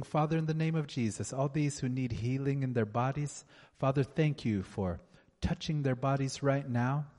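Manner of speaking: fervent, rhythmic prayer; healing prayer. Acted. A preacher praying healing over the congregation, fervent. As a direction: pray over them with conviction.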